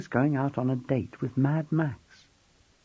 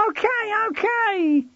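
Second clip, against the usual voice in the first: high, loud hasty give-in; giving in, shouting; 3 dB louder, slower than usual. A narrator's reading. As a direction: blurt it out to stop the call. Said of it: "George shouted".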